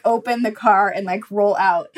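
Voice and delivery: loud, mock inner command; urgent gut voice. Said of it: "my gut voice is like".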